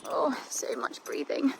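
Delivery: slow breathy whisper. Real, not acted. Rider whispers about the horse's heavy breathing, slow whisper. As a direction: whisper it slowly under your breath.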